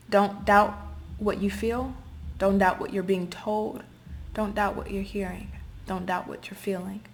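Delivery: earnest quiet urging; intense. Real, not acted. Urgent repeated advice.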